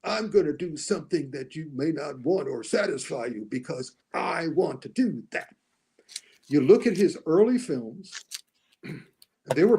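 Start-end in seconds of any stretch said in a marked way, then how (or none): 0.0-5.5 mock director. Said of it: "he kinda wants to do something different like this".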